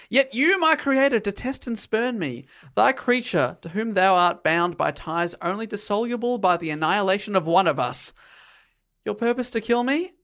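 lightly voiced grand tragic speech; Shakespearean monster. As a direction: declaim it like a stage monster. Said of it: "He now speaks like a Shakespearean character".

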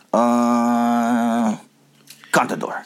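hesitant mock Mike; a hint of Mike unsure; slightly wrong copied voice. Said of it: "I'm gonna do Mike".

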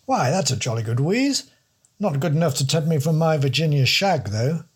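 put-on a jolly, musing old don; musing posh don. The don turning down the detective's cigarettes, musing plummy voice. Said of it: "he mused".

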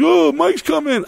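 very high, drawn-out mimicry; mock blabbing girl. Girls spilling the beans about a surprise, mock high squeal. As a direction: squeal it like an imitated gossip.

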